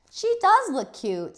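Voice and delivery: put-on high, loud, slow teasing old man; a grandpa delighting in his granddaughter. Grandpa praises Junie B in her dotty gown, slow and teasing. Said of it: "said Grandpa Miller".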